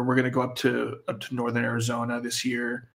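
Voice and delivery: half-hearted about the trip; unenthusiastic. Real, not acted. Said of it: "you sound really enthusiastic".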